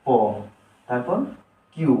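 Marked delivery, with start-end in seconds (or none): 0.1-0.1 প said alone as P's sound; letter sound demo. Shown as a demonstration. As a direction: sound out প as an isolated syllable. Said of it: "পি এর সঠিক উচ্চারণ হলো". (প আলাদা করে উচ্চারণ)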